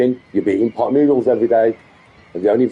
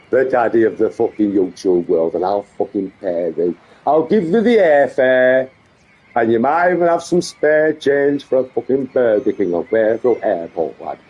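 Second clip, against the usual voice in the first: daft mock Yorkshire accent; put-on Yorkshire accent; 4 semitones lower than usual. Streamer boasting he will pay the airfare, put-on Yorkshire accent. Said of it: "this daft Yorkshire accent he goes into".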